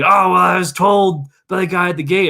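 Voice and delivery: tourist. Retold or imitated. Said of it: "He was like".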